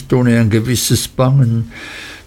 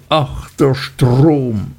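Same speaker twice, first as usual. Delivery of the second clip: despairing repetition; 3 semitones higher, much slower than usual. A narrator's reading. Martha repeating her lament, slow and despairing. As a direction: repeat it slowly as if lost in grief. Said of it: "wiederholte immer und immer wieder".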